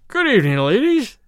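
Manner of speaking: put-on loud, slurred drunken greeting; drunk hiccuping. A narrator's reading. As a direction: play a tipsy man leering. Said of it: "he hiccuped".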